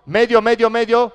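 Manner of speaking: loud, high, rapid-fire warning call; demonstrated shout. Shown as a demonstration. Coach showing defender he must yell the switch, urgent shout. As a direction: shout it urgently across the court. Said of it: "Hay que gritar".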